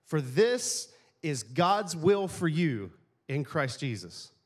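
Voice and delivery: slow scripture reading. Real, not acted. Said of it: "this is the fun part".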